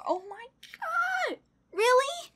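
high, drawn-out disbelief; real high-pitched amazement; astonished squeal. Real, not acted. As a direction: squeak it out, overwhelmed. Astonished at another card.

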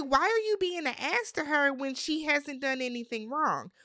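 high-pitched, exasperated challenge; indignant scolding. Retold or imitated. Host scolding him for mistreating her, high and indignant.

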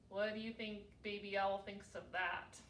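plain reading voice

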